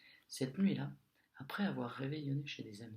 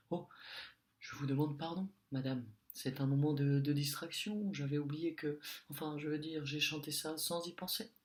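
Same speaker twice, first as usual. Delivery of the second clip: flustered apology; 2 semitones higher, 4 dB louder than usual. Acted.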